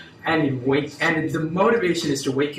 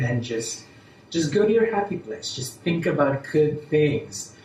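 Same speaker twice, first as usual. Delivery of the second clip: right in your ear; slower than usual. Acted. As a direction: lull them gently into rest. Leads a relaxation exercise.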